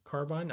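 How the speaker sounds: rising "carbine" ending like mine; carbine as car-bine. Shown as a demonstration. Streamer tests the spelled form, carbine as car-bine. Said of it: "Say it how it's spelled".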